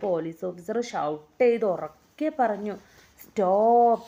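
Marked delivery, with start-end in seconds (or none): 3.2-4.0 shouted stop. Acted. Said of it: "shout the police officer".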